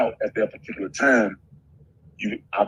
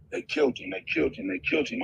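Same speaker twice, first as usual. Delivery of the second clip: high, strained wail of grief, softer; mock-cried they killed him, pitched up high; imitating her crying; 13 semitones higher, 6 dB quieter, faster than usual. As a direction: echo a sobbing woman's cry. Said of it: "She's crying".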